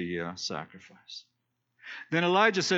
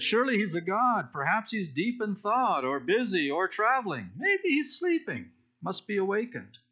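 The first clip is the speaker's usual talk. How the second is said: higher, sarcastic teasing, with "sleeping" soaring way up; mocking taunt; 5 semitones higher than usual. Elijah taunting the prophets of Baal, sarcastic and higher. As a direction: needle them with fake sympathy. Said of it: "Elijah begins to taunt them".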